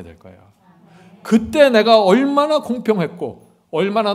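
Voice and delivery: rebuke, then soften to a promise; God rebuking then assuring; voicing God.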